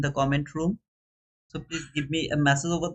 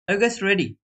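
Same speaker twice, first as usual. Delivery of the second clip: hype call; 5 semitones higher, 5 dB louder than usual. Real, not acted. Hyping viewers before the race.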